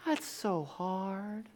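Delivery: Titus. Retold or imitated. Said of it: "Titus will come down again".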